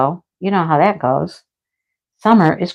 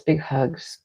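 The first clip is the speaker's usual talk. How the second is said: softer hugs; 4 semitones lower, 11 dB quieter than usual. Real, not acted.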